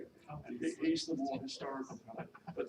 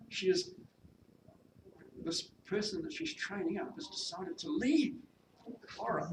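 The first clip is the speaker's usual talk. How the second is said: dramatic, slightly raised storytelling; story narration; 5 semitones higher, 5 dB louder than usual. A narrator's reading. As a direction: read it aloud with emphatic key words. Reads her novel's narration aloud.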